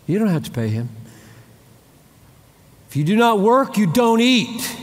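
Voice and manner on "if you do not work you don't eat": stern quote. Shown as a demonstration. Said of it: "That's Bible".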